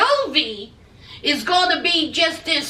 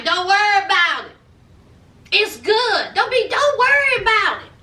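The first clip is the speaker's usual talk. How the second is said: higher, insistent mock reassurance; breezy reassurance; 5 semitones higher than usual. Son telling mom it's good, breezily insistent. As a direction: imitate a son brushing off worries, pitched up. Voicing Jovi brushing off concern.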